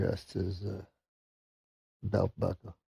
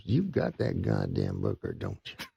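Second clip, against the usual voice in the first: redneck; 13 semitones lower, 3 dB quieter than usual. Acted. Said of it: "redneck, you know".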